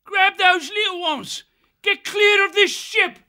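very high, loud bird-like shriek; urgent shriek. A narrator's reading. Kestrel urges oar slaves to flee with babes, shrieking. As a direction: shriek the orders across the deck. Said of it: "he shrieked at the oar slaves".

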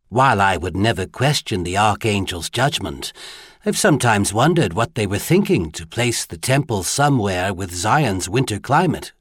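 lightly voiced, poised courtesan madam; a hint of a refined hostess; gracious hostess. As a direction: muse delicately and politely.

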